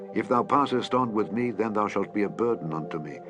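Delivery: usual speaking voice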